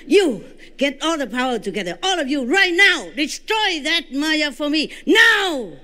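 shouted high command building to a cry; furious order. Retold or imitated. Commanding all beings to destroy Maya, furious shout. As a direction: drive the order home with force. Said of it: "louder and more angry than that".

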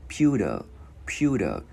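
"Pewter" with the T as a light Vietnamese đ; T softened to D. Shown as a demonstration. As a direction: tap a gentle D in place of the T in "Pewter". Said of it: "Chữ T biến thành chữ đờ tiếng Việt nhẹ". ("Pewter", chữ T thành đờ nhẹ)

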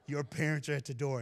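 repeats the line through a laugh. Retold or imitated. Retelling the teacher's call to the crowd, laughing. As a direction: laugh it out, amused.

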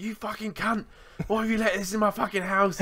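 high-pitched retold outrage, volume held back; imitated yell without the loudness; mock yelling. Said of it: "I'm yelling at Gizmo".

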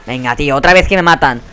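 ordinary talk

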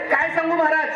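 put-on high-pitched old woman's lament; mildly acted tearful wail; retold weeping. Weeping old woman to the preacher, mock tearful. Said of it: "ढसाढसा रडू लागली".

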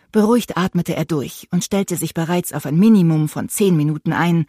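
ordinary talk, nothing marked

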